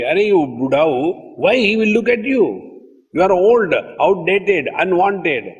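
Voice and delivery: high-pitched, blunt telling-off; mock scolding. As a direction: scold a clinging parent, pitch jumping up. Mock telling-off of worried mothers.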